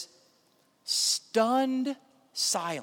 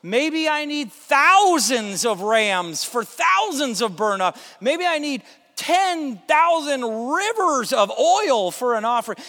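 escalating plea; 4 semitones higher, 4 dB louder than usual. Acted. The people bargain with God, growing more desperate and louder. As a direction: push each offer harder than the last. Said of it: "gets a little bit stronger and a little bit weirder".

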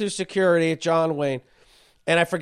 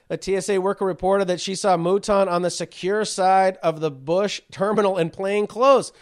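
higher-pitched reading voice; reciting a news article, pitch lifted; 4 semitones higher than usual. Real, not acted. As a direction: read the report aloud to the audience. Reads out a news report.

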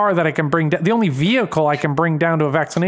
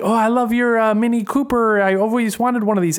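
higher-pitched, badly imitated Jamaican; crazy Jamaican accent; 5 semitones higher than usual. Nurse admiring the Mini Cooper, crazy faked Jamaican accent. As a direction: put on a wayward Jamaican accent. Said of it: "Her accent sounds fucking crazy".

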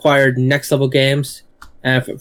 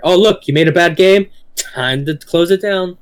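higher pitch, slowing on the last words; mock publisher; 5 semitones higher than usual. Imagining a big company shutting a studio, mock-casual verdict.

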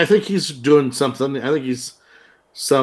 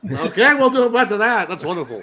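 lightly voiced producer, starting high; put-on producer, easing down at the end; 5 semitones higher than usual. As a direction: slip into a mock producer voice. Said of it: "producer voice".

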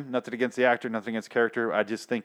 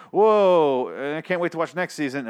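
excited viewer; 4 semitones higher, 4 dB louder than usual. Acted. Viewer reacting to a season's last episode, excited. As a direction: burst out with awe, then settle.

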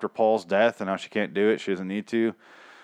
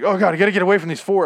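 higher, louder, fast mock panic; 9 semitones higher, 6 dB louder, faster than usual. Mocking Paul fleeing the last four zombies in panic. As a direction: rattle it off in fake alarm. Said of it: "And then he's like".

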